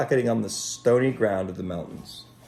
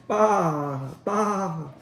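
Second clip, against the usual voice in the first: higher bleat; ewe bleating; 8 semitones higher than usual. Acted. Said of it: "the ewes said".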